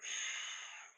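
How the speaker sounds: long airy sigh; reluctant sigh. A narrator's reading. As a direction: sigh before giving in. Reluctant character sighs before speaking.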